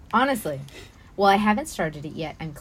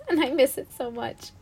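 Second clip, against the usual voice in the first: sincere, higher-pitched wistful admission; a little pained and earnest; heartfelt; 5 semitones higher than usual. Real, not acted. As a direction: say it with real longing. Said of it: "the sincerity in your voice".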